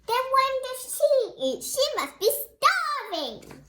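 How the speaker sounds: high, loud surprised question; high astonished pity; shocked wonder. Real, not acted. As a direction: gasp in sympathy for her. Reader exclaims to child.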